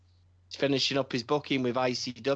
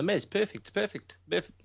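excited; 8 semitones higher than usual. Real, not acted. Excited about a storyline idea.

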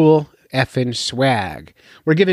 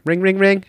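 higher-pitched spoken ring; imitated phone ringing; 6 semitones higher than usual. Host acting out a call to the contest hotline, mock ringing. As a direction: mimic a ringing phone in quick repeats.

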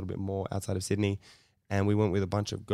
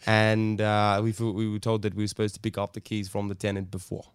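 put-on South African accent; 4 dB louder than usual. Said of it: "actually did a South African accent to this guy".

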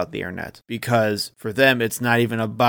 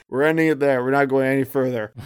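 laughing. Real, not acted. Laughing while wrapping up.

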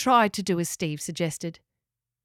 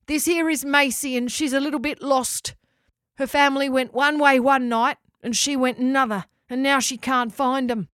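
put-on lightly raised, eager young animal voice; little companion voice; 4 semitones higher, 5 dB louder than usual. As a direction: ask kindly like a small friendly creature. Child voice asking Locker.

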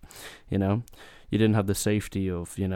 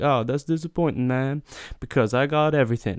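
somewhat higher, louder mock disappointment; a hint of the letdown driver; 5 semitones higher, 4 dB louder than usual. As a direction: sound lightly let down, salesman style. Driver reacts to refusal.

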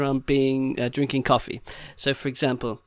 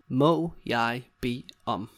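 slow, separated words; slower than usual. Shown as a demonstration. Teacher showing another way to ask, word by word. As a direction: set each word apart for learners.

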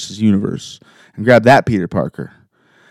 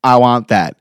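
put-on much higher, pleading kid voice; whiny Peter; 10 semitones higher, 4 dB louder than usual. Peter begging to keep his friends, a high whiny plea. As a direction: plead like a desperate teen. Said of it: "Peter's like".

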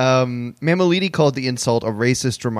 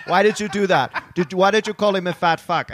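Mammoliti; 5 semitones higher than usual. Retold or imitated. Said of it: "And then Mammoliti's like".

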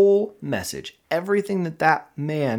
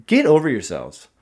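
louder, barked-out tough-love yell; retold yell; 3 semitones higher, 7 dB louder than usual. To addicts in his recovery group, a loud tough-love yell. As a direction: snap it at the room like a drill sergeant. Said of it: "I freaking yell at 'em".

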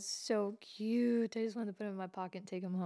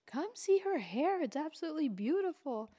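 imitating old man calling; 7 semitones higher than usual. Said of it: "he starts yelling for his wife".

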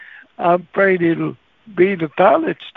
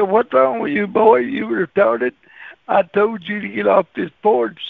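angry homeowner; 3 semitones higher than usual. Retold or imitated.

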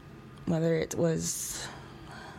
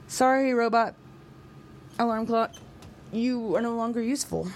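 mock farewell; 4 semitones higher than usual. She bids the broken robot alarm a mock-solemn farewell. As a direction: dismiss the dead robot with playful pomp.

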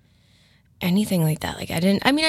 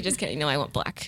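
lower, softer teasing imitation; mock friend voice; 8 semitones lower, 6 dB quieter than usual. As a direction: imitate her friend, low and soft. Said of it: "Tracy's like".

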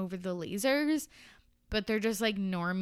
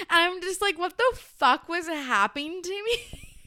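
laughing disbelief; 10 semitones higher, 4 dB louder than usual. Real, not acted. Laughing at her own note.

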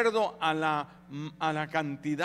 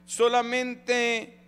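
solamente drawn out slowly, higher and louder; slow stressed solamente; 5 semitones higher, 4 dB louder, much slower than usual. Acted. Preacher to congregation, drawing out solamente slowly and loud. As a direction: lean hard on solamente, stretching it.

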